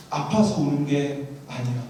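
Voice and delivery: quietly, as the weeping friend; tearful friend. Retold or imitated. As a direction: friend in tears telling the preacher why he cries. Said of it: "울더라고요".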